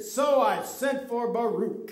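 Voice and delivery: firm declaration, falling firmly at the end; confident stage delivery; with conviction. Shown as a demonstration. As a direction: declare it as a sure statement. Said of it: "say it with more conviction".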